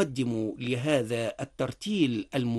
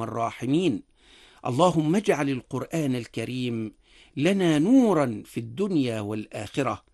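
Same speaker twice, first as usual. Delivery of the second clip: prayer. Acted. Imam closing the reading with a prayer, devout supplication.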